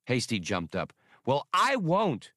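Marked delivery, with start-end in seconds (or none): 1.3-2.3 much higher, slow and firm; defiant. A narrator's reading. Hasty defying Han, high and firm. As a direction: plant your feet and refuse.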